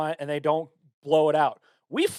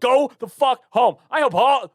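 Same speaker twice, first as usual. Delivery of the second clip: slow, loud shout; loud rant; 8 semitones higher, 7 dB louder than usual. Real, not acted. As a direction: bark it at them slowly. Ranting at holiday drinkers.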